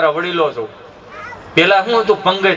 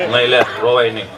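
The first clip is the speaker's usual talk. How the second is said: very deep, unsoothing dad voice; low-voiced father's awkward comforting; father hushing child; 11 semitones lower than usual. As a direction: tell a child not to cry, pitched way down. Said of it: "બાપો સાનો રાખે".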